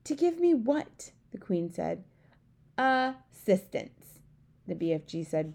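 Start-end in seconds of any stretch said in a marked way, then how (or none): 0.0-1.1 higher, slow puzzled question; queen baffled by the giant. A narrator's reading. 2.8-4.2 slow, drawn-out proud word; the giant savouring the right word; proudly beaming. A narrator's reading.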